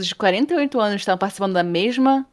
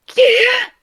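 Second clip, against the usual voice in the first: much higher, louder stunned question; stunned disbelief; 6 dB louder than usual. Retold or imitated. Ana lê que venceu em primeiro lugar, espanto total. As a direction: gasp it out in shock.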